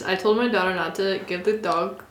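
lightly attempted New Jersey accent. Shown as a demonstration. Trying Taylor's coffee line for friends, halting New Jersey accent. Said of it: "without it being in an accent".

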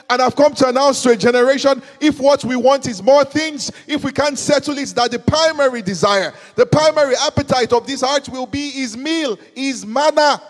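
loud, ringing proclamation; full-voiced preacher's cry; preaching climax. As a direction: declare it to the whole generation.

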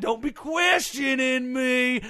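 redneck outburst. Acted. Guest snapping back to his hillbilly self. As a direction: drop the posh act and threaten him like a redneck. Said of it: "you reverted to your natural self there for a second".

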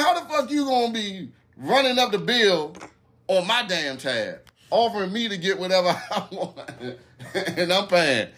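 high, laughing indignation, easing down; incredulous complaint. Retold or imitated. Man protesting the bill on his tab, mock incredulous complaint. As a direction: replay the protest, half laughing at it. Retold outrage over the bill.

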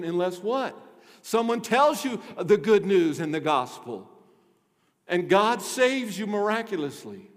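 forceful preacher making his case; worked-up pulpit teaching; emphatic preaching. Real, not acted. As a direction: press each point on the congregation.

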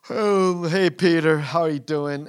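bright, loud hello from a contented cat; cheery greeting. Acted. Sleepy cat greets Peter with a loud cheerful hello. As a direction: call out happily to Peter.

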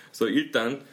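normal talking voice

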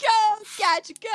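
loud high "Go, Gadget, go!"; shouted catchphrase. Retold or imitated. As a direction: belt it out like a cartoon hero.

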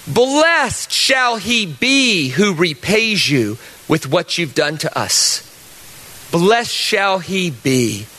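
slow, grave psalm reading fading to a breath on rocks; measured Bible reading, slow and heavy; solemn scripture reading. Shown as a demonstration. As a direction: read it like a lament, dropping away at the end. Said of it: "this is Psalm one thirty-seven".

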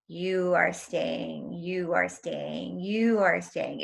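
slow, drawn-out insistent repetition; measured voice repeating itself slowly; heard voices. Retold or imitated. Voices speaking to her during near-death experience, slow and insistent. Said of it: "I kept hearing voices".

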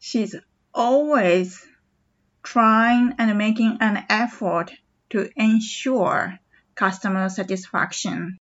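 slow, drawn-out repeat of the sentence; slow teacher repeat. Shown as a demonstration. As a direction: stretch each word for learners. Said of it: "もう一度いきます".

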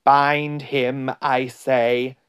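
insistent, mildly imperious command; commanding witch. A narrator's reading. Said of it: "repeated the White Witch".

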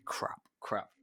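whispered anxious curse; panicked whisper. Retold or imitated. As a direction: hiss it under your breath in panic. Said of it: "I was sitting there going".

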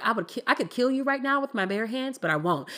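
understated, matter-of-fact mock menace; calm retold threat. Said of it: "She said it calmly".

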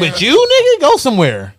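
high, loud dismissive outburst. Real, not acted. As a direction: tell him to get lost. Mocking Jackson Mahomes.

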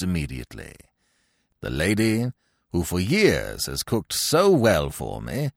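stately, measured announcement of an engagement; lightly voiced grand old man, solemnly proud; pompous old gentleman. Old Little announces his engagement.

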